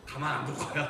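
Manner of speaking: loud, high, slow booming divine voice; God's jealous voice. Acted. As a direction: proclaim it as a jealous God. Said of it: "이렇게 얘기하세요". (질투하는 하나님의 크고 높은 목소리)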